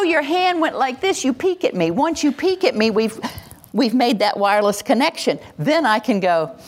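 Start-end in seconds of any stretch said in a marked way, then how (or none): 0.0-1.2 gentle noticing. Shown as a demonstration. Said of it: "See, if I go".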